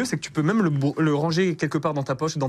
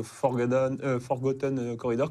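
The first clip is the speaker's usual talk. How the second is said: English accent; 3 semitones lower than usual. Real, not acted. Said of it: "On adore ton accent anglais".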